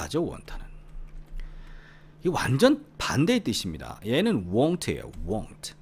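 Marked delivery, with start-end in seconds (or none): 5.3-5.7 won't starting from a pursed "oo"; exaggerated rounded won't; careful correct pronunciation. Shown as a demonstration. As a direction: glide "oo-wohnt" for won't. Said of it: "이 발음 잘해야 됩니다".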